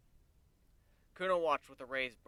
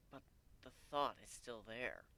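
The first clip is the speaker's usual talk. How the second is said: apologetic; 7 dB quieter, slower than usual. A narrator's reading. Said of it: "with an apologetic smile".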